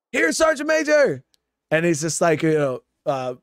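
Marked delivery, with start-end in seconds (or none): 0.1-1.2 high, squeaky answer to the sergeant major; sheepish reply. Retold or imitated. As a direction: pipe up like a caught recruit.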